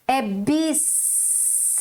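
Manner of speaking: "bis" with a clear S; right "bis". Shown as a demonstration. Teacher giving the correct "bis". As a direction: stress the S in "bis". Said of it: "Eu tenho o sonzinho do S".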